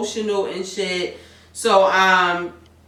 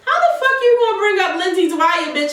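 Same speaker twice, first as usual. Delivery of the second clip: louder, higher fired-up scolding at the screen; heated rant; 6 semitones higher, 3 dB louder than usual. Pretend. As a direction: go off on her like a fed-up friend. Heated rant at character, both hosts.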